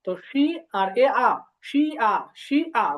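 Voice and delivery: slow syllable by syllable "শি আ" with a falling tone; falling tone demo. Shown as a demonstration. Teacher models Chinese syllables for students, slow falling tone. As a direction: model "শি আ" slowly, letting the tone fall. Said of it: "তো falling tone আছে".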